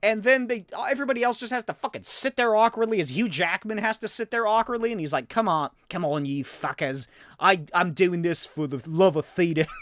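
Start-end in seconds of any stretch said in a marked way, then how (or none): 5.3-9.7 awful, botched put-on Australian accent. Retelling Hugh Jackman sitting awkwardly through an ovation, bad Hugh Jackman impression. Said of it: "This is a terrible Australian accent".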